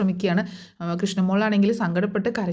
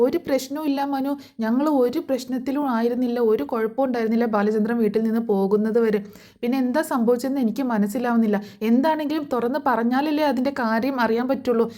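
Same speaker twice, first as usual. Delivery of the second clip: pitched-up, mock-agitated complaint; higher-pitched imitation of an upset wife; fuming retold; 4 semitones higher than usual. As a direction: retell her boiling over in a raised, higher voice. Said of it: "വൈജ ഇങ്ങനെ കിടന്ന് തിളയ്ക്കുകയാണ്".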